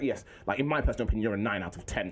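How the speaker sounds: measured, proper, matter-of-fact; formal schoolboy impression. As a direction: imitate a serious kid giving his verdict. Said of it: "How comes you talk like this?".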